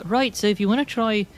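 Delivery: put-on butchered but cheerful-paced Scottish accent; rough Scottish accent. Bartender advising travelers, rough Scottish accent. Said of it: "Bailey is Scottish".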